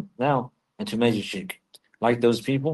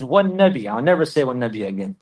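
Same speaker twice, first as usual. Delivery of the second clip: blurted slip. Retold or imitated. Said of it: "he says".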